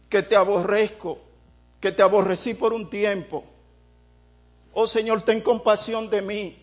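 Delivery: pleading lament, rising on "Oh" and falling at each line end; sinner's lament prayer. Retold or imitated. Preacher voices a sinner confessing to the Lord, pleading. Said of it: "Yo digo".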